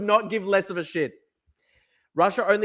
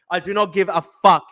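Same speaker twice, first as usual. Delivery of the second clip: usual speaking voice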